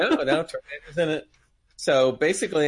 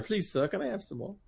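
softer, higher pleading English orphan; Oliver; 6 semitones higher, 7 dB quieter than usual. Acted. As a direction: meekly beg in a mock English accent. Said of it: "like watching the movie Oliver".

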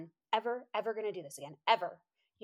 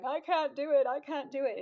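raised-pitch protest, imitating herself; mock complaining; 5 semitones higher, 4 dB louder than usual. Tired hiker being pulled along by her friend, mock complaining. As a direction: protest in a higher voice, playing up the defeat.

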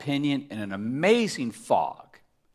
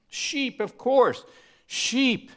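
mock high squeak; 11 semitones higher, much slower than usual. Real, not acted. Preacher answers his own question in a high mock voice. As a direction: pitch jumps way up on Sheep.

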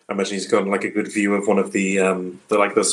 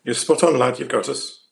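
put-on country accent; 3 semitones higher than usual. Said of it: "You go country".

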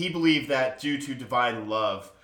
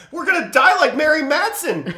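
high, slow, laughing wail; laughing mock doom; 7 dB louder than usual. Joking to cohosts, a high slow laughing wail. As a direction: laugh through a fake lament.

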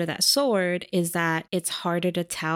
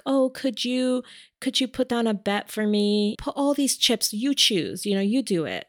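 higher, mock helpless plea; fake helpless blind woman; 4 semitones higher than usual. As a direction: play the sweet helpless blind lady. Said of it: "she's asking Thomas".

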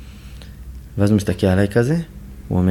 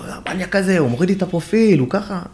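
much higher, upset outburst; agitated complaint; 10 semitones higher than usual. Retold or imitated. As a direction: vent to the coordinator about the maniac. Angrily complaining about the doctor.

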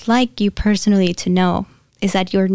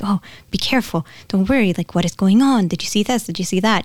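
mock worried friend; faster than usual. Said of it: "your friend comes with a serious face".

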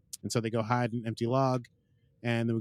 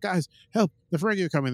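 higher and louder, hammed-up panic; mock cry for help; 7 semitones higher, 4 dB louder, faster than usual. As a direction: play at being trapped and calling out. Mariner calls for help.

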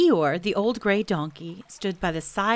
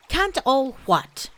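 higher, puzzled bear question; concerned Pooh; 6 semitones higher, 5 dB louder, slower than usual. A narrator's reading. Pooh asking Eeyore what is wrong, higher and concerned. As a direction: ask with friendly worry.

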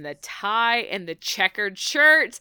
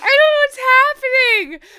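excited shout; 13 semitones higher, 9 dB louder than usual. Real, not acted. Host screams along, overjoyed.

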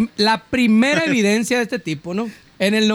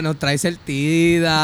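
slow deep mock shout; 7 semitones lower, much slower than usual. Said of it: "el Omar le gritaba".

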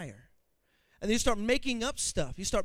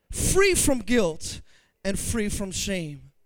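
slow emphasis; 4 semitones lower, much slower than usual. Real, not acted. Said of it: "preacher slow emphasis".

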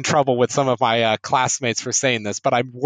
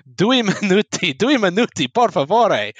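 pleading; 6 semitones higher than usual. Retold or imitated. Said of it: "I was like".

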